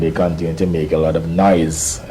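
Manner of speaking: "noise" said with light, pointed emphasis; stress on noise. Real, not acted. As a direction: lean on the word "noise" a little. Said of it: "I emphasize the word noise".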